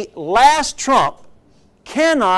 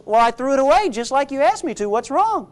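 quick, higher-pitched acted innocence; defensive husband; 7 semitones higher than usual. Husband explains to wife he did as asked, acted defensiveness. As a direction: play a puzzled husband, pitched up.

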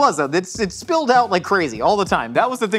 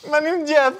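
put-on Slovak accent; 11 semitones higher than usual. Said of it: "hit him with your Slovakian accent".

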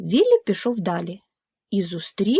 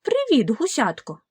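farmer calling out; 5 semitones higher than usual. Acted. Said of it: "крикнув Віллі".

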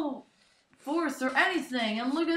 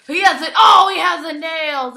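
excited call; 2 semitones higher, 10 dB louder than usual. Real, not acted. Spotting the nails weapon.

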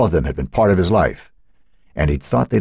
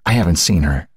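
voice breaking. Acted. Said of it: "his voice broke".

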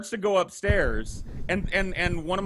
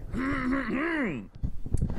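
muppet-like throat clear; 9 semitones higher, 3 dB quieter than usual. Real, not acted. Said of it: "You turned into a Muppet for a second?".

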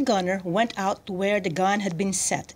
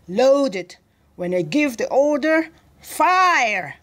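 raised, louder military command; commanding order; 5 semitones higher, 5 dB louder, slower than usual. A narrator's reading. General ordering his gunner to load, commanding. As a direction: build up to a high, loud order on the last word.

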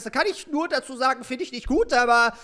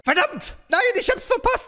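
frustrierter Ausruf; 13 semitones higher, 4 dB louder than usual. Real, not acted. Misses the note.

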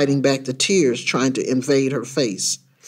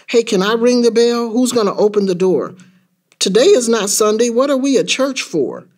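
put-on high-pitched, eager kid questions; curious child; 6 semitones higher than usual. Child at the church door asking questions, curious. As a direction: ask like an inquisitive child.

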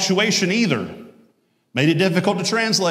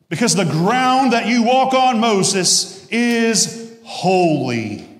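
high, loud proclamation slowing to a close; weighty divine pronouncement; God addressing Moses; 7 semitones higher, 3 dB louder, slower than usual. Acted. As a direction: declare it solemnly, drawing out the last words. Voicing God's answer to Moses.

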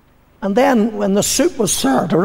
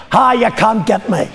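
taunt; 4 semitones higher than usual. Acted. Taunting the devil across the line.

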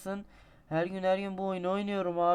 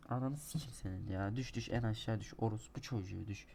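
soft, low under-breath swearing; low muttered swearing; muttered cursing; 5 semitones lower, 7 dB quieter than usual. Real, not acted. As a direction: grumble curses under your breath. Muttered curses at game.

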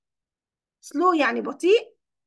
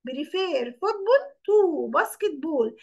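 very slow, drawn out to the end; slower dictation; much slower than usual. Shown as a demonstration. Teacher repeating the sentence for pupils, even slower.

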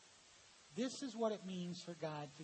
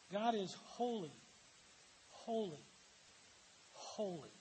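holy, holy, holy, each holy paused and falling, fading softer to the last; threefold holy for emphasis; 3 dB quieter than usual. Shown as a demonstration. Teacher demonstrating the superlative triple holy to students. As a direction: let every holy land slower and quieter than the one before. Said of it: "his only attribute to be stressed to this degree".

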